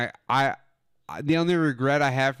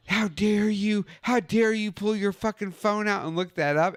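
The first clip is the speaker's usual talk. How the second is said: mock outrage; 9 semitones higher than usual. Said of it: "And they were like".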